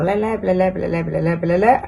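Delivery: babbling imitation of Chinese speech; mock Chinese gibberish. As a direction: rattle off fake syllables like a foreign tongue. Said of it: "eles falavam". (imitando o chinês com sílabas inventadas)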